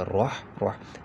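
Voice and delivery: राह राह with a full heavy र and ḥ; thick राह twice; heavy ra demo. Shown as a demonstration. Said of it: "तो मोटा पढ़ा जाएगा".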